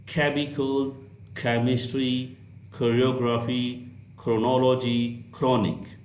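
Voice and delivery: "chemical" and "chronic" begin with a clear aspirated kh; hard kh sound. Shown as a demonstration. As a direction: start each word with a firm kh. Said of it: "is pronounced as kh". ("chemical" में सी एच को ख की तरह बोलें)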